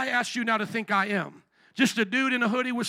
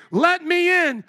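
loud, higher order at the door; commanding demand; 6 semitones higher, 8 dB louder, slower than usual. Acted. Mighty Jesus demanding entry at the heart's door, loud. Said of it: "It's the King of Kings".

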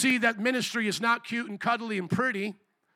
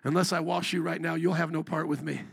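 lower, understated parental warning; parent to kids; 4 semitones lower than usual. Acted. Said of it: "Sometimes I talk like that to my kids".

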